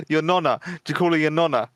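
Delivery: put-on joking Italian accent; a light put-on Italian lilt. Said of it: "Like a worse Italian accent".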